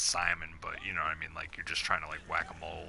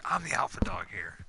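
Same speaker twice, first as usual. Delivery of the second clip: mock tough whisper. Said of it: "I was like".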